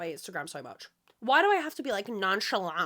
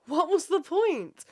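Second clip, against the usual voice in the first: laughing; 7 semitones higher, 5 dB louder, slower than usual. Real, not acted. Laughing at own rhetorical question.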